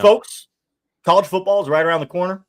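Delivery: loud, fast hype; excited announcement. Real, not acted. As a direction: pump up the listeners. Hyped announcement to listeners.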